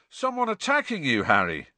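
high-starting, mildly sleepy question; sleepily. A narrator's reading. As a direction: ask as if just woken. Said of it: "Seamus asked sleepily".

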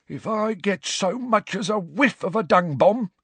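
high loud menacing warning; threatening caretaker. A narrator's reading. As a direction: threaten him on the way out. Filch's parting threat.

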